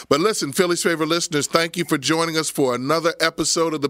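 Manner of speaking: upbeat host outro; closing a gospel radio hour; radio sign-off. Acted. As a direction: announce the show's return.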